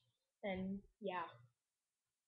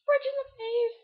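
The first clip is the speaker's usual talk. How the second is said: shouted; 14 semitones higher, 9 dB louder than usual. Pretend.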